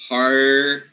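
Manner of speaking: Par said with a clear r; r syllable. Shown as a demonstration. Teacher isolating the first syllable of party. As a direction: Par held with the r sounded. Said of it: "with the R included".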